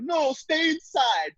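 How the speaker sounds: mock scold. Mocking people telling everyone to stay in.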